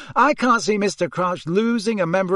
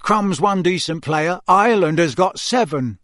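curt; 4 semitones higher, 4 dB louder than usual. Acted. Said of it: "said Charlie shortly".

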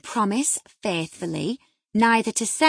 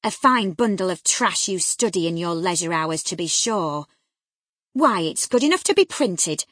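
loud, stern scolding; grave severity; 3 semitones higher, 7 dB louder than usual. A narrator's reading. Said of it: "With a grave severity in my manner".

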